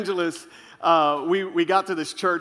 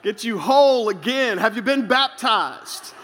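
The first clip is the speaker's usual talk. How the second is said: mock prophetic counsel; 4 semitones higher than usual. A boy counselling Barbie and Ken, mildly prophetic and laughing. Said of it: "I sense the Lord saying".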